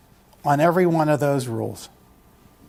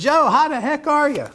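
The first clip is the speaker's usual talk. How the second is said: mock-hearty politician's hello, much higher; hearty greeting; 10 semitones higher than usual. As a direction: greet him like an old buddy. Tom Wolf greets Joe Baduka.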